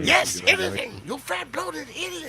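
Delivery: very high, shrill cartoon chihuahua; Ren voice. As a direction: squeal it like Ren. Ren and Stimpy Ren quote.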